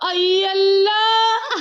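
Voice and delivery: drawn-out exclamation. Real, not acted. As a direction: stretch आई Allah out slowly in amused disbelief. Amused exclamation at baby.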